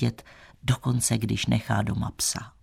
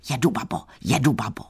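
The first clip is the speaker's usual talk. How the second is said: mock chant of teasing boys; jeering taunt; faster than usual. A narrator's reading. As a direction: taunt her like village boys. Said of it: "pokřikovali na ní".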